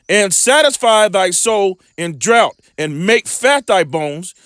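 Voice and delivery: measured, slow Bible reading; preacher reading scripture aloud. Acted. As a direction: read the verse slowly like a preacher. Scripture read aloud in sermon.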